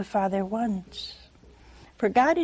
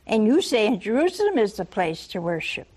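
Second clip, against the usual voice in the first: sly whisper. Retold or imitated. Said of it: "she changes the subject to religion".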